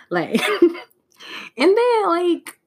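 words high through laughter; laughing. Real, not acted. Laughing again over the clip.

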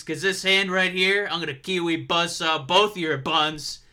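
trash-talking wrestling promo; mock-tough heel taunt. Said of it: "I wanna try and cut a promo".

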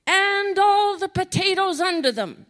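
high, loud, laughing through the words; laughing punchline. Retold or imitated. Prayer warrior slipping in a joke, laughing punchline. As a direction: deliver the joke as the laugh breaks.

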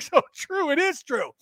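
high, light agreeing voice; mock Julie agreeing. Mimicking Julie cheering along, high-pitched mock agreement. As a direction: chirp it up high like an eager fan. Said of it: "Julie's like".

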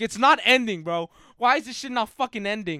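loud, high panicked protest; retold panic. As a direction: re-enact desperate panic mid-sprint. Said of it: "panicking the entire fucking time".

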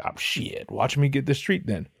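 muttered aside. Retold or imitated. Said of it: "It's like".

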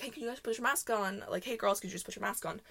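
soft-voiced polite request, retold. Store worker asking girls about masks, soft and polite. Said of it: "Very politely".

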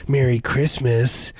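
slow, menacing Merry Christmas; sinister. Shown as a demonstration. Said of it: "like, a sinister way".

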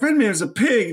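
imitating a snide woman on the phone; mock Tiffany voice.

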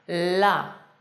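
"La" with a wide-open, well-defined A; clear open vowel. Shown as a demonstration. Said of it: "Abre bien la boca".

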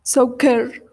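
Sauker said slowly as SOW-ker, falling; careful German try; trying the German word. Shown as a demonstration. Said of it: "¿Así se pronuncia?".

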